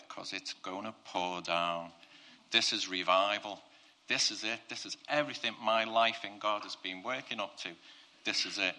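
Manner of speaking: mildly pumped, insistent proclamation; a touch of excitement, driving each phrase home. Acted. Preacher as Elijah announcing revival, mildly pumped up. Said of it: "he was so pumped".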